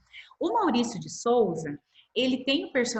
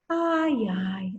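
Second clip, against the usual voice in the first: mock sigh. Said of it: "ela tá suspirando, assim".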